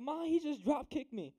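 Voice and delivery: high, whiny little-sister tattling voice; a hammed-up wail of a little sister tattling; mock crying sister. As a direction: squeal it like a kid running to mom. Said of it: "She's, like, freaking out, crying".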